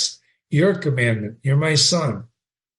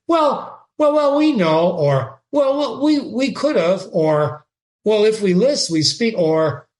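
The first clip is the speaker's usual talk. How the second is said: mock knowing friend; 5 semitones higher than usual. Hamlet mimicking a sly friend hinting at secrets, hammed-up knowing voice. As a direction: ham up a knowing nudge. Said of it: "pronouncing of some doubtful phrase as".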